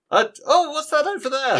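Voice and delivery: high, loud mock surprise; fake surprise. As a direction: point away, pretending shock. Fake distraction to dodge question.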